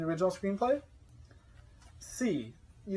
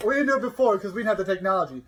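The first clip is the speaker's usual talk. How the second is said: George Lucas impression; 5 semitones higher, 6 dB louder than usual. Imitating George Lucas explaining.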